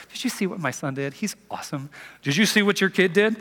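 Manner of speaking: mock parent complaint. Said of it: "you go to your spouse and say".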